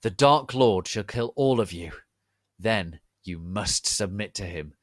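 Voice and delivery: menacing. Acted. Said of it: "Snape ejaculated menacingly".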